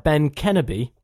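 "Kenobi" stressed on the first syllable, KEN-obi; slowly misplace the stress in "Kenobi"; wrong name emphasis. Shown as a demonstration. Reading out names with wrong emphasis, deliberately misstressed "Kenobi". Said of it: "putting the emphasis, he says, on the wrong part of names".

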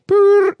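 high, loud trilled phone ring; phone ring imitation. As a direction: imitate an old office phone ringing.

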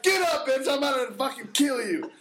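high, loud mock threat; a loud hammed-up yell at the choking lady. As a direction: bark it at her half joking.

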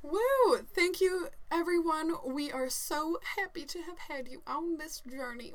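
slipping into a Southern accent; a touch of Southern twang; southern drawl. Real, not acted. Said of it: "Why do I talk like a Southerner?".

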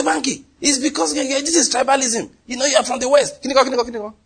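lightly voiced mocking complainers; mimicking accusers. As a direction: imitate people crying tribalism. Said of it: "People say".

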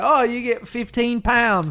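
put-on British accent. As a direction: imitate a British show announcing its prize. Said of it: "I love British shows where it's like".

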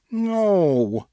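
put-on high, drawn-out drunken whine; whining. A narrator's reading. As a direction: whine it like a sulky child. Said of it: "she whined".

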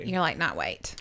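dropped low and hushed, almost breathed; cheeky aside. Pretend. Co-host hushing a cheeky answer to the doctor. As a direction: slip it in like a naughty secret.

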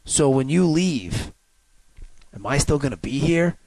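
slow, lightly voiced musing cop; philosophical police officer. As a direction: ponder it slowly, imitating an officer. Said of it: "gets all weird philosophical on him".

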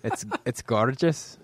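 put-on slow, playful Northern Irish accent. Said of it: "We just brought out the accent in him".

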